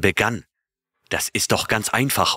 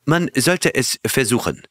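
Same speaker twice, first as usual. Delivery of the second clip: raised, eager exclamation from the little Frenchman; exclaiming; 6 semitones higher than usual. A narrator's reading. The little Frenchman urges the crew, excited exclamation. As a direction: blurt it out, keen to try. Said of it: "rief der kleine Franzose aus".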